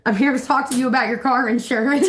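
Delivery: reading the joke through laughter; laughing through the line. Real, not acted. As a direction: chuckle the meme's line out. Reading meme while laughing.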